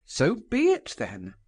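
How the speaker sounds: grave, forceful declaration; solemn and forceful. A narrator's reading. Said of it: "she spoke solemnly and forcibly".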